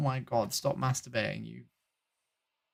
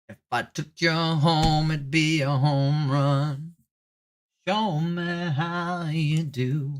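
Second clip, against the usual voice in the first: mock flirt; 5 dB quieter, slower than usual. Cheesy pickup line to stranger.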